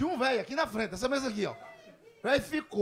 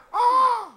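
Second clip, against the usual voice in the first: loud, high mock gasp; hammed-up scandalised cry; shocked gasp; 13 semitones higher, 10 dB louder than usual. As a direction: exclaim "oh" in exaggerated shock. Old lady's acted shocked reaction.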